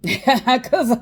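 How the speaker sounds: high breathless laughter breaking through; laughing. Real, not acted. Breaks into laughter mid-sentence.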